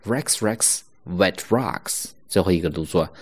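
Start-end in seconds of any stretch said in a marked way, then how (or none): 0.1-2.1 Rex Rex wet rocks said slowly; slow model. Shown as a demonstration. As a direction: read the twister slow. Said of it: "W是不发音的". (慢读Rex, wreck wet rocks)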